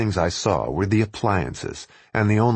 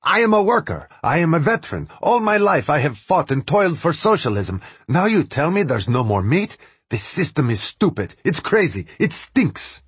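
angry shouting; 7 semitones higher than usual. Acted. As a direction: yell it out like a fed-up worker. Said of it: "He shouts".

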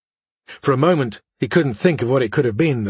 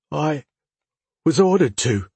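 whimpering; 4 semitones higher than usual. Acted. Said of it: "the boy whimpered".

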